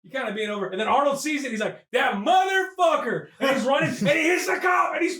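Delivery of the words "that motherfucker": drawn-out, indignant curse; mock outrage. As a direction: stretch it out in comic fury. Arnold spots his enemy.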